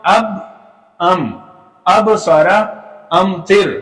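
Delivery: अब with a bounced b, अम plain; the b of अब echoing back; qalqala contrast. Shown as a demonstration. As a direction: recite अब सारा against अम तिर. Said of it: "next देखिए".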